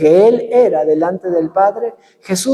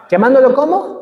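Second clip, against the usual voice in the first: laughing call-out; 3 semitones higher than usual. Shown as a demonstration. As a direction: prompt the crowd to answer, laughing.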